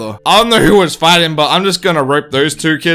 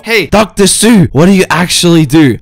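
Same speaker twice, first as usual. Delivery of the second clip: mock viewer question; 6 dB louder than usual. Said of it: "But you may ask yourself".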